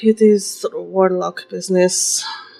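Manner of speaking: spoken with a very deep sigh. Voicing Nea answering what happened: with a very deep sigh. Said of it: "just very deep sigh".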